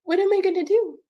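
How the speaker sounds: high, distressed wail of a question; tearful despair. Real, not acted. Mother in truck with no way out, tearful despair. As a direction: plead helplessly, close to tears.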